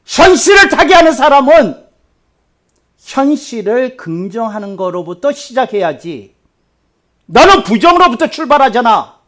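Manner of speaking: full-force preacher's rebuke; preaching. Acted. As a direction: drive it home from the pulpit.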